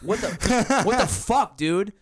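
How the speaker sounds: mild alarmed yelling; calling out. Retold or imitated. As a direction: call his name, alarmed. Calling passed-out roommate.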